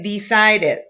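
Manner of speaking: DECIDED with its final -ed said as an extra 'id' syllable; sounded ED ending. Shown as a demonstration. Teacher showing students the E D sound, DECIDED ending in a full 'id'. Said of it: "Aquí pronunciamos la E D".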